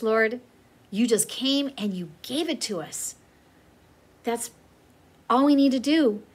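teacher closing class with a prayer, earnest; heartfelt prayer. Acted. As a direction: pray sincerely over the kids, dropping to a near whisper at times.

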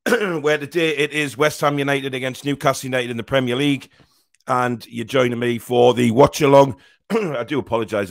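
hoarse croaky voice from illness. Real, not acted. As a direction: talk through a croaky, sore throat. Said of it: "I sound like a bloody croaky frog".

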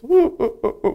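high, hammed-up boohoo sobs; mock sobbing. Teacher imitating himself crying, mock sobs. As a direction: fake a run of sobs. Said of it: "막 울었어".

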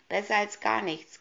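high, loud, spiteful snap; shrill nagging. Acted. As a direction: snap it at them nastily. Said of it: "keifte die Pelzhexe böse".

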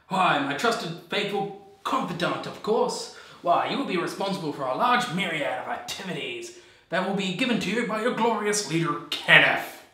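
grandiose self-important leader; ranting dictator speech. Acted. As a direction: puff up like a vain dictator. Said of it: "I am Kenneth".

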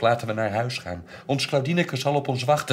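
loud, high pleading wail; crying. Acted. Child begs mother to go home, crying. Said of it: "huilde ik nu ook".

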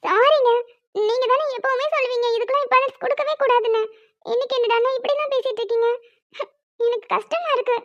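soft, hurt pleading, close to tears; teary apology. Acted. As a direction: apologise softly as if about to cry. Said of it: "இவ அழுகுறாளே".

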